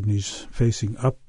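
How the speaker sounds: ordinary talk, nothing marked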